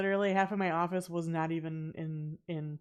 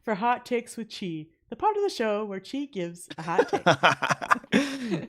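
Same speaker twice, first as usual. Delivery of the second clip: voiceover announcer; 2 semitones higher, 3 dB louder than usual. Pretend. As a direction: announce it through laughter. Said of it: "Yes, exactly like that".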